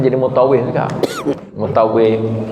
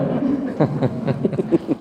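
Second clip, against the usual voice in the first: breathy chuckle; 3 semitones lower, 7 dB quieter than usual. Real, not acted. Laughs about immature goats.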